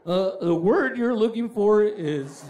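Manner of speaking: slow, deliberate mock helpfulness; lightly put-on patient tutor; helpful pretence. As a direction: hand over the word with false sincerity. Kid smugly misleads his dad.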